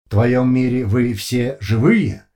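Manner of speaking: slow, loud flat machine voice; no pauses, no feeling; emotionless metallic voice. A narrator's reading. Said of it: "совершенно без пауз и эмоций".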